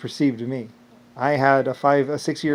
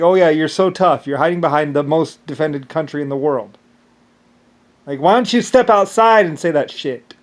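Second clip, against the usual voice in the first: taunting; 3 semitones higher, 5 dB louder than usual. Retold or imitated. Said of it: "It's like".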